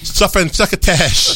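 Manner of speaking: slow, lisping "Stuff and succotash" with spit; Sylvester the cat impression. Shown as a demonstration. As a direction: lisp "succotash" slowly like a cartoon cat. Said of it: "Do it".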